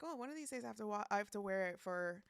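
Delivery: hammed-up little bit voice; silly put-on voice. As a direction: playfully announce it in a mock voice. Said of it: "I don't know why I'm doing that voice".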